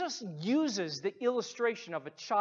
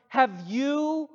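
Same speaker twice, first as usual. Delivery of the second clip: impassioned appeal; 4 semitones higher, 4 dB louder than usual. Acted. Preacher appealing to congregation directly.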